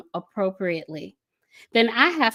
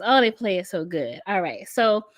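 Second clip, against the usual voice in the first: usual speaking voice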